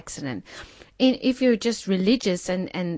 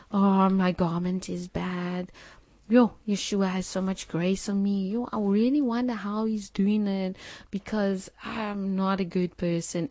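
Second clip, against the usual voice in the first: self-pitying whine. Retold or imitated. Self-pitying believer puppying her feelings, mock whine. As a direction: drag it out like a pity party. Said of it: "start to feel sorry for themselves".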